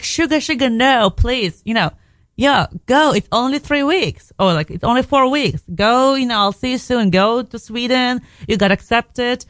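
a light take on a kind partner saying go; Ronnie on the phone. Retold or imitated. Boyfriend Ronnie voiced on phone.

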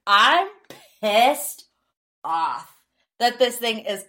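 exasperated, each word set apart; pissed off. Real, not acted. Podcaster venting about a four-part reunion, pissed off. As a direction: break it up with pauses for indignant emphasis. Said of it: "And that's why I'm mad".

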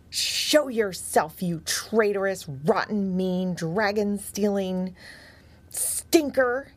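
slow, mild angry bark; a cross dog barks insults at a hidden rival; barked angrily. Acted. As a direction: bite out each insult at the hidden foe. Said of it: "he barked angrily".

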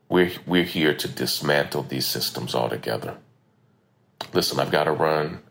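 recorded on a phone; lo-fi phone memo sound. Real, not acted. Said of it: "Sorry for the audio quality today".

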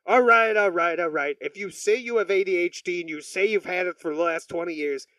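lightly put-on New York accent. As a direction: retell the doctor with a touch of New York. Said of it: "I'm doing a New York accent".

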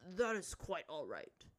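weary, slow reassurance; sighing. A narrator's reading. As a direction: say it slowly on a sigh. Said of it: "said with a sigh".

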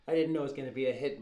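Fredo pleading. Acted. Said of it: "boat scene".

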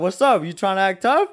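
replayed challenge, a bit worked up; mildly riled confrontational quote; heated retelling. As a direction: dare him, as in the retold row. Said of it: "I got heated".

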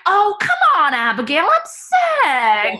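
high whining protest; whiny dad voice. Retold or imitated. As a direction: whine like a sick dad. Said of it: "he's like".

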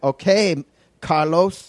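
high, pointed mock annoyance; a put-on curt wife; hammed-up fed-up tone; irritated wife. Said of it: "She's like".

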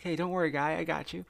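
reassuring dad. Retold or imitated. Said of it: "I felt like my dad was there".

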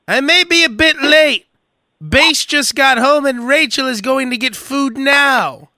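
high, slow put-on voice of the texting friend; mock friend voice. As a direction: read his text in a high goofy voice. Reading friend's text in voice.

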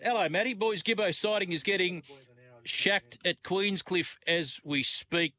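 excited text read. Real, not acted. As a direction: hype up the listener's surf text. Reading listener text excitedly.

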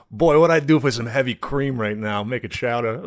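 lightly imitated Boston accent; a hint of mock Boston; the speaker, Boston accent. Survivalist wishing for cream over his fish, light Boston accent. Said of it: "it's just the guy from Bellingham".

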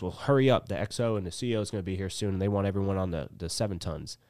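a mock impatient sergeant; gunny barking. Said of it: "he goes".

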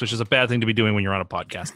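speaking through covering hands; muffled, hands over face. Real, not acted. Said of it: "I've got my hands over my face".

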